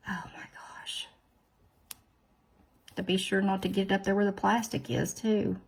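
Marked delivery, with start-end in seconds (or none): 0.1-1.1 exasperated whisper under the breath. Real, not acted. Fed up with the strip, a whispered aside. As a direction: breathe oh my gosh almost silently.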